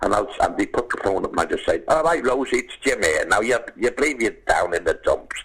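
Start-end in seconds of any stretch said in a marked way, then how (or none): 1.9-5.4 bright, coaxing pep talk, a bit higher; cheery get-well message. Pretend. Star cheering up a fan's sick mum on the phone, hearty encouragement. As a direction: gee up a poorly fan over the phone.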